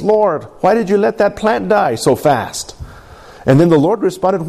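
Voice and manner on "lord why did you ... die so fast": higher-pitched, mildly exasperated plea; acted-out complaint to God, a touch aggrieved; frustrated. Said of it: "he's all frustrated and he says".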